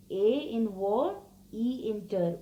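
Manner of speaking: war and ter spoken apart, slowly; syllable by syllable. Shown as a demonstration. Teacher sounding out water for the class, slowly. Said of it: "Two sounds are coming".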